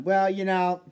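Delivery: loud put-on Boston sports fan; hammed-up Boston ballgame talk; Boston accent. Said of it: "Little Boston talk time".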